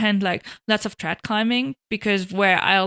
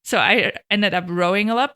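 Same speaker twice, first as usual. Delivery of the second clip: ordinary delivery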